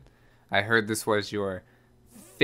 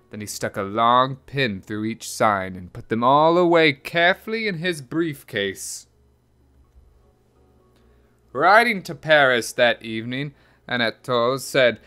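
measured picture-book reading; story narration; 3 semitones higher, 6 dB louder than usual. A narrator's reading. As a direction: read it like a children's storybook. Reads a picture book aloud.

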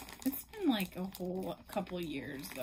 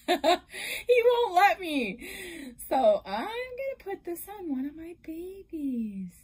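laughing through the words, much louder; 7 semitones higher, 11 dB louder than usual. Real, not acted. Joking about her husband refusing flamingos, laughing. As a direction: crack up while saying it.

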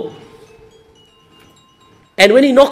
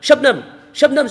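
higher-pitched calls without extra volume; mock shouting; 5 semitones higher than usual. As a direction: imitate another madman calling her name. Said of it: "they see another man shouting".

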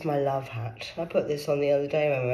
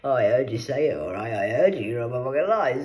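loud accusing snap; angry accusation; 5 dB louder than usual. Real, not acted. Accusing him of lying, loud and angry. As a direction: call him a liar.

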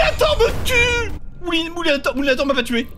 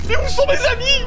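plaintive; 9 semitones higher, 4 dB louder than usual. Acted. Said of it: "Il me fait trop de peine".

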